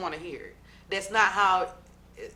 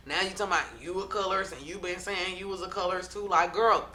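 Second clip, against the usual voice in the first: mildly heated retelling; 4 dB louder, faster than usual. Retold or imitated. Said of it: "Jackie is snapping".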